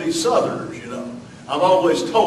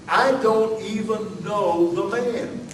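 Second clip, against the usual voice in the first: denial; 4 semitones higher, slower than usual. Acted. Peter's denial acted out.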